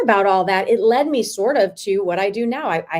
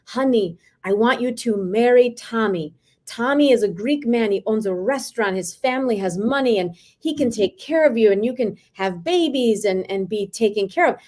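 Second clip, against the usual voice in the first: put-on father's thick Greek accent. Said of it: "he has this thick accent".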